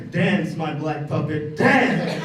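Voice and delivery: bossy master ordering puppet; mock master. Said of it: "He's like".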